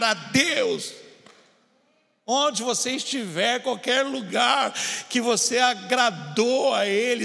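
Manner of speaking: high, forceful preacher's delivery; impassioned preaching. Real, not acted. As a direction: drive it at the congregation in ringing phrases.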